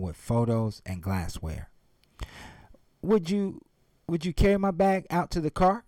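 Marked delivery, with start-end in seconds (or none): 3.0-5.8 put-on old woman voice. A narrator's reading. Old woman asks cab driver.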